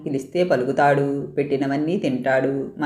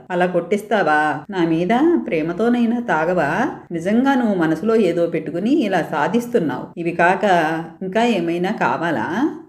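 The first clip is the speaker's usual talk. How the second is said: coaxing tearfully; 3 semitones higher than usual. Acted. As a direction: sweet-talk him like mother coaxes a brother. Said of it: "ఏడుస్తోంది". (కొంచెం ఏడుపుతో బుజ్జగిస్తూ)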